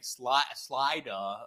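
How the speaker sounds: Slida with the final r dropped; nickname pronunciation. Retold or imitated. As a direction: say Slida softly, ending in an open "ah". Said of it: "that's his fucking nickname is".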